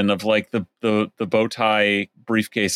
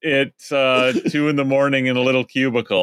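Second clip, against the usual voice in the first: lightly voiced goofy nerd; dopey poli-sci guy; 4 semitones higher than usual. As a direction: read it like a smug dopey student. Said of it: "dopey smile saying".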